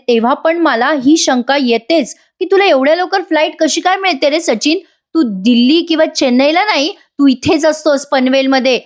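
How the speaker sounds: high-pitched, mildly accusing retold retort; accusing suspicion. Wife doubting husband's flights to Delhi, suspicious and accusing. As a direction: challenge his story, pitch lifted, volume normal.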